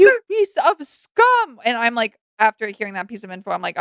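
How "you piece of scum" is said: high, loud, slow jeering insult; mock insult. Chiming in on the rant with a hammed-up jeer. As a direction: drag it out like a sneer.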